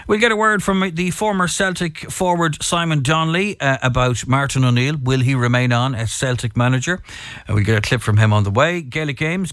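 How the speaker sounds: radio sports bulletin delivery; sports news read. Real, not acted. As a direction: read out the sporting headlines as a presenter. Reads the sports headlines.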